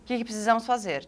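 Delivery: retold cool-headed question, matter-of-fact; detached calm under pressure, imitated; cold composure. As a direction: ask it coolly, without any alarm. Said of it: "eu fiquei assim, ó, fria".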